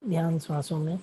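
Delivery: unhurried meditation guidance with long silences; guided meditation. Acted. Meditation host guiding the group to watch their breath, guided meditation. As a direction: lead them gently inward, leaving long pauses between phrases.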